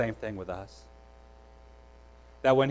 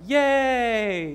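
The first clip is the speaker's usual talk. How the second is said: high, bright mock cheer to a baby; 8 semitones higher than usual. Dad cheering his fallen baby son, high excited "Yay".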